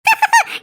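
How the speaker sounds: short, high-pitched cackle; gloating laugh. Acted. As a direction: let out a quick high laugh to yourself. Gloating aside after the suitcase talk.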